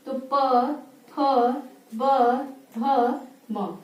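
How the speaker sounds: प फ ब भ म said with the lips closing; teacher modelling lip sounds; 1 labial letter demo. Shown as a demonstration. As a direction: press the lips for each sound. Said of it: "बोलिए प".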